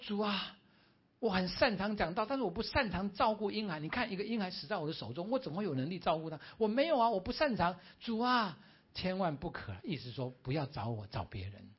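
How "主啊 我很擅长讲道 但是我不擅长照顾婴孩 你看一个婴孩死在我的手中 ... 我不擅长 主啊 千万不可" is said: protesting plea. Acted. 牧师向神推辞抗议.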